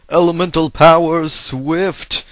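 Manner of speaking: mock attack call. Gamer mocking the move he dislikes, hammed-up loud call. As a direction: shout it like a cartoon attack name.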